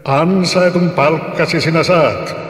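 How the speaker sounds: lightly voiced angry spirit; threatening giant. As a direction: promise doom like a giant.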